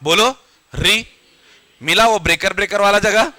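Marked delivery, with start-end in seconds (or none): 0.7-1.1 "री" from the rough ridge just above the gums; retroflex ri demo. Shown as a demonstration. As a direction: curl the tongue up as for ट and say "री". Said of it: "मसूड़ों के थोड़ा ऊपर एक खुरदुरी जगह है".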